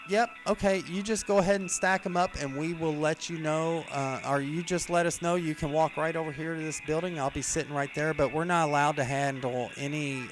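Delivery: high, fake-friendly clerk voice; sugar-coat the brush-off; sweet service voice. Coworker sweetly fobbing off the customer, high mock politeness. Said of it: "she goes".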